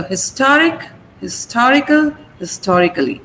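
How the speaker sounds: historic, historical, historically stressed on STOR; stress on second syllable. Shown as a demonstration. Teacher compares historic forms, stress fixed on STOR. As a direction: keep weight on STOR as endings grow. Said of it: "the stress automatically".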